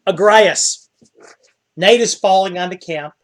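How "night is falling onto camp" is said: hushed, peaceful night narration; game master's scene setting. A narrator's reading. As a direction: lull them with a soft, calm scene. Game master sets a calm scene.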